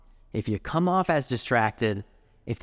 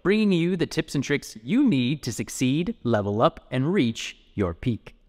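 show intro. Acted. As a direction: open the show like an energetic host.

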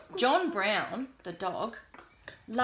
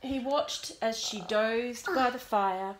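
put-on reading to children; 4 dB louder than usual. A narrator's reading. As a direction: read gently to a small child. Reads picture book aloud to child.

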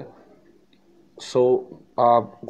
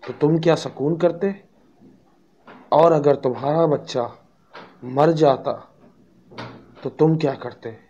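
higher, louder indignant father; angry father; 4 semitones higher, 4 dB louder than usual. Acted. Father angry at the smiling doctor, raised and loud. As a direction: hurl the questions at the doctor. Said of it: "father ने गुस्से से कहा".

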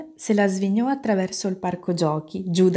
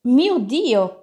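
high-pitched cry of alarm; storybook exclamation of shock, pitched up; startled cry; 5 semitones higher, 4 dB louder than usual. A narrator's reading. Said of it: "urlò e lasciò cadere la tazza di tè".

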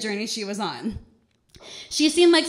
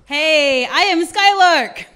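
loud greeting; 7 dB louder, slower than usual. Real, not acted. Comic greets crowd after intro.

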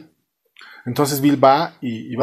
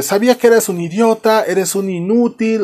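high, raised angry berating; mock yelling; 8 semitones higher than usual. Frank yells insults at his son, mock yelling. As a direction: play a dad exploding in insults. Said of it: "le empieza a gritar diciéndole".

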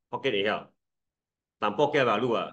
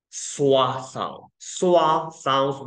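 lazy sound; 4 dB louder, much slower than usual. Shown as a demonstration. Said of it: "懒惰嘴巴的呃".

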